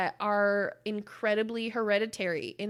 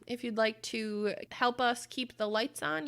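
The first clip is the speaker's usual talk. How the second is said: ordinary delivery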